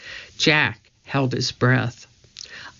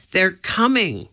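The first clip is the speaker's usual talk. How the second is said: a touch of panic, higher; alarmed cry; 6 semitones higher than usual. Acted. Annie warning Jack of the guards, mildly alarmed. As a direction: warn him, mildly urgent. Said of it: "Annie cried".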